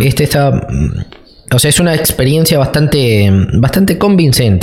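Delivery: talking through a mouthful of food; chewing while speaking; mouth full. Real, not acted. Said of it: "Hablaba con la boca llena".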